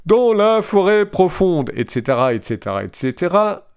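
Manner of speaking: high robot voice, sing-song et ceteras. Retold or imitated. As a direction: machine voice trailing into et cetera. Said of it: "avec ma belle voix de robot".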